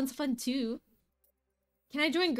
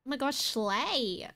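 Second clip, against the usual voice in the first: drawn-out, slow valley-style slang; mock white girl drawl; 2 semitones lower, 3 dB quieter, slower than usual. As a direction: stretch it out like a gushing white girl. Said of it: "That was totally white".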